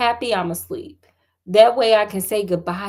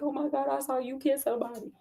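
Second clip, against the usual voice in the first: mocking teen; 3 semitones higher, 10 dB quieter, faster than usual. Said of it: "Just over the top, just too much".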